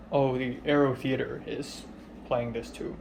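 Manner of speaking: lightly mimicked deadpan voice; deadpan imitation. Mimicking her at the cinema, deadpan. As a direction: deliver it with no reaction, deadpan.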